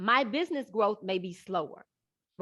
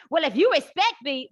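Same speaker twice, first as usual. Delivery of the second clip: imitating the husband; 7 semitones higher, 7 dB louder than usual. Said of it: "the man's like".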